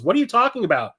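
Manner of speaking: high-pitched mock bafflement; baffled protest. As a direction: imitate someone confused, pitch jumping up. Acting out character's baffled reply.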